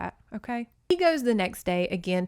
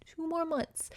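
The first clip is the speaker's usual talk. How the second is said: mocking plea; 4 semitones higher than usual. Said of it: "he keeps thinking, like".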